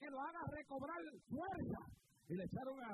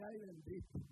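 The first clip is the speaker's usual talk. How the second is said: put-on Puerto Rican accent; 4 semitones lower than usual. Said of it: "como el puertorriqueño".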